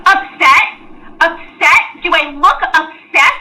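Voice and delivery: loud, indignant repeat of the word; angry. Acted. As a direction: throw the word back at them. Dana denies being upset.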